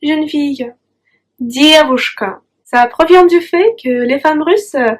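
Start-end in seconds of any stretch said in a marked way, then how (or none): 1.4-2.4 девушка said slowly and clearly; девушка modelled syllable by syllable; slow model word. Shown as a demonstration. A teacher slowly models девушка for the student. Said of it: "tu peux lui dire девушка".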